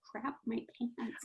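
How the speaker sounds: slow, soft retold panic; panicked thought. Recalling her thoughts when two lawyers showed up, slow and hushed. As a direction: mutter the dread to yourself slowly. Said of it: "I just thought".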